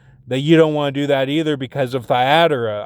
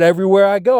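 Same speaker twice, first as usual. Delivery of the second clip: higher, somewhat agitated protest; exasperated complaint; 5 semitones higher, 4 dB louder, much faster than usual. Retold or imitated. Telling her trouble follows him everywhere, exasperated. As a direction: complain with pitch lifted.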